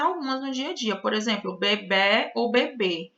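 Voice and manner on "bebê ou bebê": "bebê ou bebê", first with an open E, then with a closed E; two pronunciations. Shown as a demonstration. Teacher to class, contrasting open and closed E, slowly. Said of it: "é admitido tanto bebê quanto bebê".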